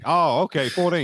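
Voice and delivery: realising what was meant; amused understanding. Retold or imitated.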